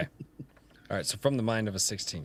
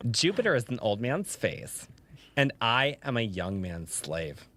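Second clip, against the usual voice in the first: slow, lower, drawn-out poetic reading; gay voice; 3 semitones lower, 3 dB quieter, slower than usual. Pretend. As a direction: read it like a lightly camp poet. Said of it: "We're gonna stay with the gay voice".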